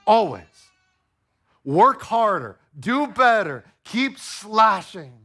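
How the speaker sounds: pushy taskmaster barking orders; demanding idol voice. Pretend. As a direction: drive them like a harsh boss.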